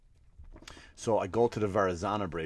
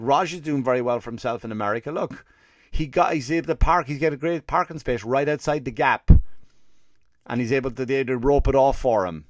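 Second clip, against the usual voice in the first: put-on lightly done Indian accent, higher and proud; a hint of a proud Indian relative; 3 semitones higher, 6 dB louder than usual. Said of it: "an Indian guy".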